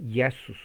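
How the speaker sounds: JESUS as "YA-sus"; Greek pronunciation. Shown as a demonstration. Teacher contrasting the same spelling across languages, Greek pronunciation. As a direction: open Jesus on a Y glide.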